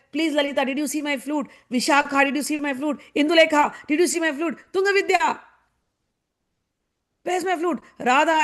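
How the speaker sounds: high, frantic acted searching; going bonkers. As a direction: plead with one friend after another in mounting panic. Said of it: "he's going bonkers".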